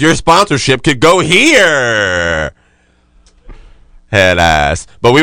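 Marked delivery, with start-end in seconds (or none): 0.0-2.5 slow, drawn-out announcer read; mock ad pitch. Pitching advertisers after drug talk, slow mock announcer voice. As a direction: sell the ad slot like a radio spot.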